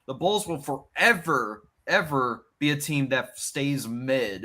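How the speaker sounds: loud, high-pitched outburst; exasperated fan rant. Real, not acted. Fan venting about the Bulls to friends, exasperated. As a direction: vent in disbelief, pitch jumping up.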